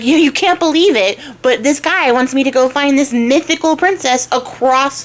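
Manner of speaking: lightly acted indignant outburst; acted disbelief. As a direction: complain incredulously, voice lifted high. Upset archer complains to his horse.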